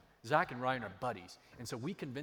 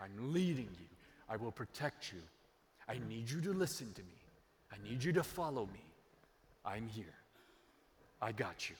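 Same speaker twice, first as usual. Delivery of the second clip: tender reassurance; 4 semitones lower than usual. Acted. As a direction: gently reassure a frightened child. God voiced, tender reassurance.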